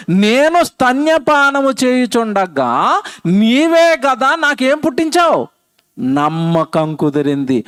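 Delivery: slow, measured Bible recitation; solemn scripture reading. Shown as a demonstration. Preacher showing the congregation how to read the Bible, slow and solemn. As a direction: read the verse out word by word. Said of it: "అలాగే చదవాలి Bible".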